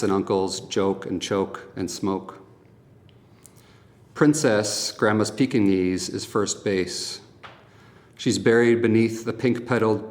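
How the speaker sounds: measured poem recital with deliberate pauses between lines; poetry reading. Acted. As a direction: recite each image, then let it land. Reads second poem aloud.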